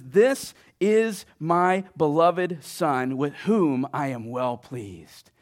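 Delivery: slow, emphatic pronouncement, falling at the end; lightly voiced booming voice of God; booming voice from heaven. The Father affirms his Son at the baptism, booming. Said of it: "this voice booms from the sky".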